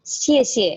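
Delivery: second "xie" light and short; falling first "xie", quick light second "xie"; neutral tone demo. Shown as a demonstration. Teacher models neutral tone for class. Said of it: "dibacanya ringan saja".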